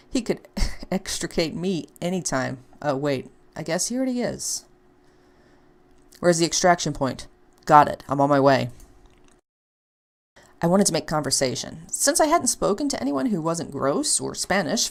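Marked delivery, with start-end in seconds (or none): 6.2-8.7 a hint of a clipped agent on radio; lightly voiced Leon, brisk. Leon radioing about the extraction point, brisk. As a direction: report in and move out.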